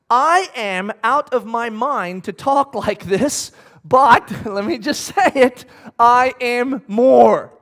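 laughing through it. Acted. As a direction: chuckle at the boldness, then belt the end.

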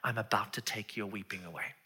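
soft, sincere promise; hushed, kind tone; gentle comfort. Acted. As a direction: quietly reassure someone weeping. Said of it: "talk with her first and say".

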